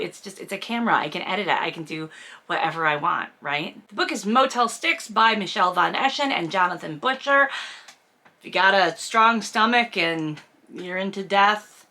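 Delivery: normal talking voice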